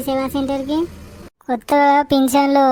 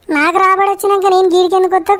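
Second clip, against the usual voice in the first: indignant outburst; 4 semitones higher than usual. Acted. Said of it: "నా మీద అరిచినంత".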